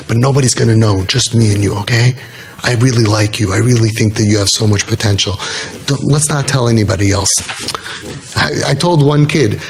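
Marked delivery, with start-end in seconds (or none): 0.1-7.3 lower-pitched, retold confiding tone; confidential reassurance. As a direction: take the kid into your confidence, pitched low. Retells confiding secretly in a kid.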